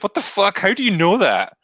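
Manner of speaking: high-pitched imitation of disbelief; retold astonished outburst; mock shock. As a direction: react as if blindsided, play-acting. Acting out shock, slamming brakes.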